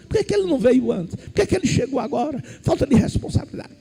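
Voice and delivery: quick hushed grumbling of the crowd; crowd gossip murmurs. Acted. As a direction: rattle it off like a whispering crowd. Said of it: "Imagina os burburinhos trocados daquela multidão".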